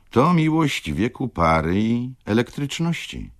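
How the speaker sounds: lightly voiced lively widow, wry and animated; lekko zagrana żywa wdówka. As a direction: play the worldly widow sizing up her suitors, lightly. Widow describes modern love. (lekko odegrana, żywa i kpiąca wdówka)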